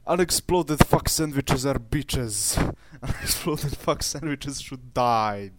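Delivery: put-on Russian accent in broken English; mock Russian accent. Ranting at unexploded sandwiches in a mock Russian accent. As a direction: rant like a hammed-up Russian. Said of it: "I need more Russian in my accent".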